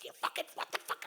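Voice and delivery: furious stage whisper, acted out; imitated row in whispers; loud whispered argument. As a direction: argue hard without any voice. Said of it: "really loud argument while whispering".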